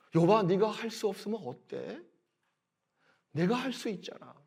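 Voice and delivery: soft tender reassurance; God quietly reassuring Job; comforting. Shown as a demonstration. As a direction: hold him gently with words. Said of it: "위로하고 어루만지는 말씀이거든요".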